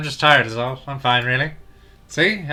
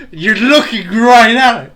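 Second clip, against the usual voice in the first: higher, louder, slow exasperated yell; exasperated shout; 8 semitones higher, 9 dB louder, slower than usual. Real, not acted. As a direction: yell in disbelief.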